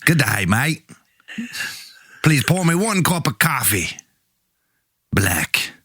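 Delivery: tentative Australian coffee order, with pauses; Australian accent. Acted. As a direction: attempt an Australian accent, phrase by phrase. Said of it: "You're from Australia".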